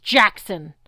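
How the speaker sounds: titan growling at Percy; growled name. A narrator's reading. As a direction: snarl the name. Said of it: "Kronos' voice growled".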